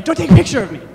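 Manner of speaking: high, loud whiny refusal; mock protest. Partygoer dodging a camera, in a high, loud mock whine. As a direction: play the camera-shy partygoer, hammed-up. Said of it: "People are like".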